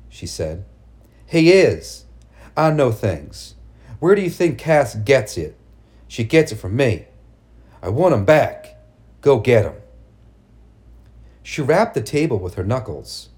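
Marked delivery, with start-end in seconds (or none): 1.2-9.7 loud, insistent mother; fierce demand. Acted. Mad mother demands son back.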